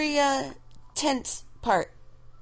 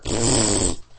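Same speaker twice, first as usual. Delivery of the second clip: loud, low lip-buzzing raspberry; long rude lip trill; blown raspberry; 11 semitones lower, 4 dB louder than usual. Real, not acted. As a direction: blow a defiant raspberry. Blows off the absent critic's objection.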